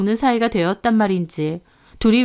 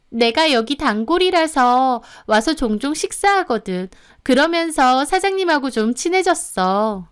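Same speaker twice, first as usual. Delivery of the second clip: lightly voiced friend, slightly higher; friend making excuses; 4 semitones higher than usual. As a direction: offer a casual excuse to a suspicious friend. Friend explains herself when caught. (변명하는 친구 목소리)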